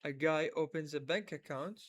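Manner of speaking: slow, clear, word by word; slow model reading. Shown as a demonstration. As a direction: read it out slowly again. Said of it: "ونظل نعيد". (قراءة بطيئة متكررة)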